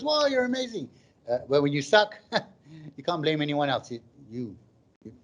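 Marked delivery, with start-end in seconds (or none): 0.0-0.9 audience praise. Retold or imitated. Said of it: "audience goes".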